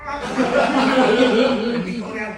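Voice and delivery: words broken by laughter; real laughter mid-sentence; laughing. Real, not acted. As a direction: laugh through the line. Laughing while telling.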